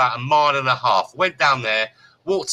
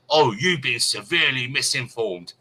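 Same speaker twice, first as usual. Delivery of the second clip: haughty quote. Retold or imitated. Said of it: "I was".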